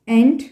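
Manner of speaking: ENT said alone as a first chunk; separated syllable. Shown as a demonstration. Teacher splitting a hard German word for learners, "Ent" said separately. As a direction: break off "Ent" as its own piece. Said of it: "You can separate the words".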